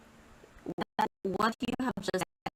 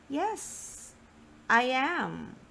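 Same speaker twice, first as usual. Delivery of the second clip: "am" said a little louder than "Yes, I"; stress on AM; 6 semitones higher, much slower than usual. Shown as a demonstration. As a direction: land firmly on "am". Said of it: "the verb is said a little louder".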